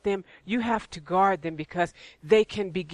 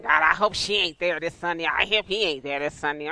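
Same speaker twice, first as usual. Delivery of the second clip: lower-pitched sour grumble; mock grumbling churchgoer; 3 semitones lower than usual. Churchgoer dreading who will be there Sunday, mock grumbling. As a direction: grouse a prayer under protest. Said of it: "do you come to church saying".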